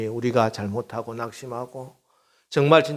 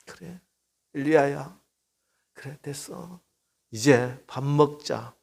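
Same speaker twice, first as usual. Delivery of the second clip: gentle comfort. Retold or imitated. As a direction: coax him gently to eat. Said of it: "그를 어루만졌어". (부드럽게 달래는 목소리)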